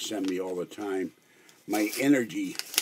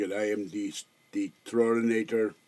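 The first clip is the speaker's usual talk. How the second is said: terrible Arnold Schwarzenegger imitation. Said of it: "This is my terrible Arnold Schwarzenegger imitation".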